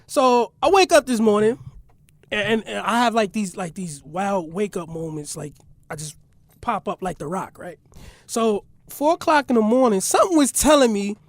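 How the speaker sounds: talking while chewing gum; words round a piece of gum. Real, not acted. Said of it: "I got gum in my mouth".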